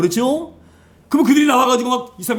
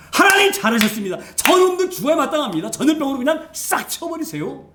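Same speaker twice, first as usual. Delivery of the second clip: higher-pitched, hammed-up cheering on of punishment; mock eager approval; 5 semitones higher than usual. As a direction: play at egging God on, pitch jumping up. Preacher acts out his own vengeful reaction.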